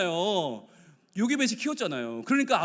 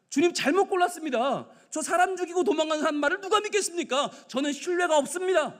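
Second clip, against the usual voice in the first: higher-pitched, insistent objection; protesting Moses; 7 semitones higher than usual. Acted. Preacher as Moses telling the Lord he chose wrongly, protesting. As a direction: plead that you are the wrong choice.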